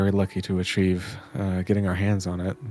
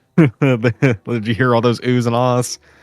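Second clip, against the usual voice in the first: usual speaking voice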